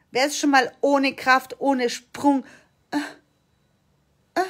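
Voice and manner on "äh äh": tiny half-hearted jump grunt; mock effortless "uh"; feeble effort grunt. Shown as a demonstration. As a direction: imitate a weak little hop with a grunt. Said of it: "so leicht gesprungen".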